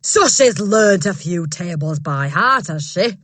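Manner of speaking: loud scornful bark. Acted. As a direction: sneer it at her like a bully. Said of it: "Miss Trunchbull barked".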